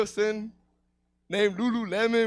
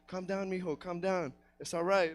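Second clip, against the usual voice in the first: softer, calming principal voice; soothing principal; 3 semitones lower, 4 dB quieter than usual. Retold or imitated. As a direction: gently settle an upset pupil. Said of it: "the principal was like".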